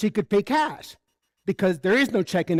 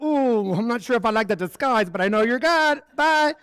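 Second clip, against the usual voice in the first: higher, sing-song reluctance; playful wariness; 4 semitones higher than usual. Acted. Reacting to someone's disguise as child of God, playfully wary. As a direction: back off politely with a high-pitched bye.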